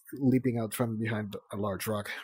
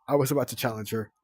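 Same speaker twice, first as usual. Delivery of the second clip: cried out; 3 dB louder, much faster than usual. Acted. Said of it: "Glory cried".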